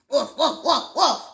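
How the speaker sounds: put-on oddly Spanish-accented woofs; Spanish-sounding dog bark. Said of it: "Why does your dog sound Spanish?".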